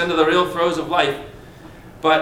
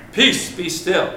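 calm command; slower than usual. Acted. Jesus calms the storm.

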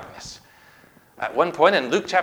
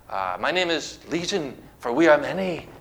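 growl; 2 semitones lower, 4 dB quieter than usual. Acted. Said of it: "he growled".

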